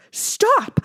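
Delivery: high, loud terrified shout; boy screaming in horror; horrified scream. A narrator's reading. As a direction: scream at your own hands. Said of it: "I screamed down at them in horror".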